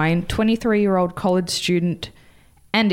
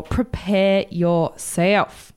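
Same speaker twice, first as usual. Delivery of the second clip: ominous; much slower than usual. Acted. Dramatic story intro.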